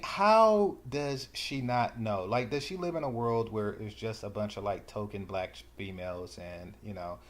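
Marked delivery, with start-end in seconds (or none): 0.0-3.7 incredulous. Real, not acted. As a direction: stretch the question out in sheer disbelief. Incredulous at the clip's claim.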